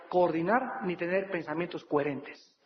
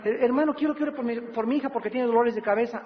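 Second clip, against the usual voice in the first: mother's request; 3 semitones higher than usual. Retold or imitated. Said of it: "me trae una muchacha".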